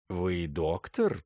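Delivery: slow, sultry drawl; low languid voice. Acted. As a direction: linger seductively on the question. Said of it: "низким томным голосом". (низким томным голосом)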